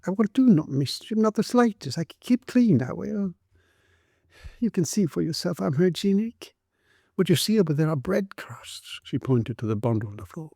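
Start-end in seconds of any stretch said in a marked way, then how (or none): 0.1-9.0 high pleading. A narrator's reading. Tearful mother keeps pleading.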